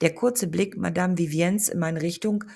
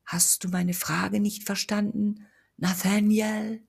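ghost voice; 4 semitones higher, slower than usual. Acted. Ghost questions the narrator.

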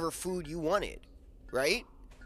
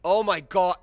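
amused goblin exclamation; 3 semitones higher, 11 dB louder than usual. Acted. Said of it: "he starts laughing".

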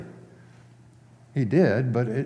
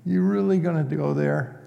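mock exasperation; 5 semitones higher than usual. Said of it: "it's a frustrated feeling".

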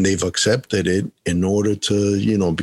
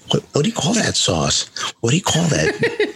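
imitating an officer; 8 semitones higher than usual. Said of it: "This guy's like".

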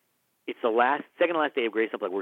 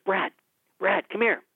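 calling out; 8 semitones higher, 3 dB louder than usual. Retold or imitated. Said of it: "And he goes".

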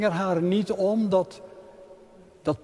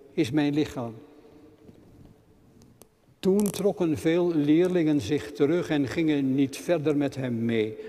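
measured, solemn reading of the Bible passage; scripture reading. Acted. Lector reading scripture to the congregation, measured and solemn. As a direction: read it out like a lector in church.

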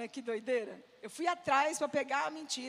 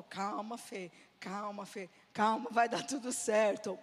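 lightly voiced soothing pastor, low and slow; slow, lower reassurance; calming, imitated; 4 semitones lower, 5 dB louder, slower than usual. Pastor Paulo calming an upset Fê, slow soothing voice. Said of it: "o Paulo sempre me acalmava".

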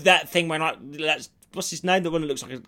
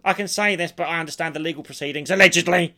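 smug comedian; 6 dB louder than usual. Retold or imitated. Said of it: "It's like".

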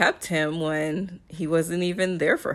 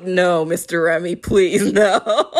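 laughing plea, building louder on the last no; mock pleading; 4 dB louder than usual. Viewer begging Mister Remy not to allow a song, mock pleading. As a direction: beg him not to, half laughing. Acted plea against him singing.

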